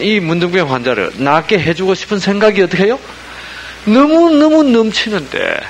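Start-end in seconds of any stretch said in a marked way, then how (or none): 3.8-5.6 much higher and slower, swelling with feeling; fervent emphasis. Acted. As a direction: pour out the overflowing love. Stressing Jesus' overflowing will. (넘치는 사랑을 높고 느리게 강조)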